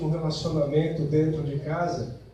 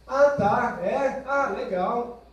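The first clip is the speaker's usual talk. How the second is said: ironic; 5 semitones higher, much slower than usual. Acted.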